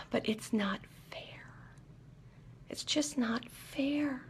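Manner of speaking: breathy, slow voiceless whisper of a tempting inner voice; addiction's whisper. Retold or imitated. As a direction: whisper it like a sly voice in your ear. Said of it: "That little voice digs a little deeper and goes".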